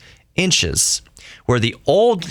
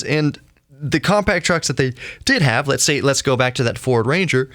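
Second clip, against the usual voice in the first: talking through hiccups; hiccuping; 3 semitones higher than usual. Real, not acted. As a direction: speak with hiccups breaking in. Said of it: "Sorry, I'm hiccuping".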